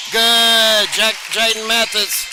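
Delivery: three-point call; excited call. Real, not acted. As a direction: lift the voice for the made three.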